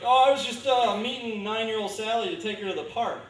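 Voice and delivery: high, loud, falsely innocent excuse. Retold or imitated. Caught pedophile pleads innocence to Chris Hansen, high mock-innocent voice. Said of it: "They're always like".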